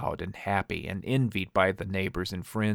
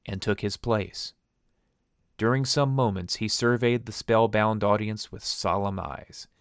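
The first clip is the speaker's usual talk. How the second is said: ordinary delivery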